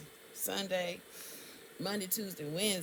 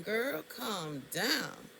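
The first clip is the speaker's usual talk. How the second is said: calming herself; 2 semitones higher, much slower than usual. Retold or imitated. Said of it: "the entire time I'm going".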